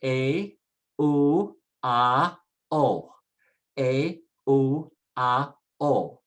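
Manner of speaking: A, U, A, O as separate Spanish sounds, eh, oo, ah, oh; isolated vowels. Shown as a demonstration. Teacher reads the vowels first for learners, isolated vowels. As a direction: say A, U, A, O one vowel at a time. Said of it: "Let's read the vowels first".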